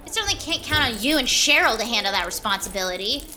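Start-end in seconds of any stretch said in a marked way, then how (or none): 0.1-1.8 rising, indignant diva tirade; haughty defiance. Acted. Diva snaps at director Steve about her press, haughty. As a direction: put the director in his place.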